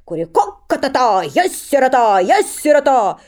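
loud, high crowing; holy fool crowing like a cockerel; rooster cry. Acted. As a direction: crow it like a rooster. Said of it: "Кричит, будто по-петушиному".

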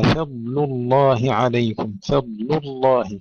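فضل الله with light ف and ل, heavy ض between; light fa and lam. Shown as a demonstration. Recitation teacher modelling for students, light fa and lam. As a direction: keep ف and ل thin before the full heavy Allah. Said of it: "ترقيق الفاء ثم ترقيق اللام".

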